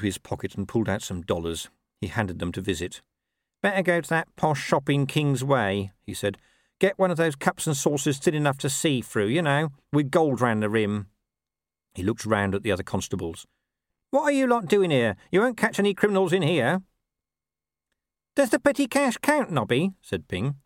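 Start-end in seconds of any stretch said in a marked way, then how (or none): 3.6-11.1 a hint of a scruffy copper giving orders; Nobby's voice. Nobby sends Visit for posh cups, lightly voiced. 14.1-16.8 much higher, louder bark at the lads; Nobby scolding. Acted. Nobby tells the other constables off, loud and high. 18.3-19.9 very high, cheeky question ending on a rise; Ping's voice. Acted. Ping needles Nobby about petty cash, high and cheeky.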